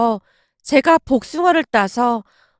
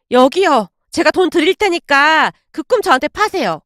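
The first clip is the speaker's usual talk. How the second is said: eager, pressing request; insistent urging. Acted. Daughter-in-law offering money to buy the dream, pressing. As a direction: push politely but insistently. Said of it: "건네며 다시 재촉했습니다".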